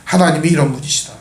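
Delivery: a grandfather telling little ones gently; gentle storytelling. Retold or imitated. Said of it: "그들에게 이야기를 해줬을 겁니다".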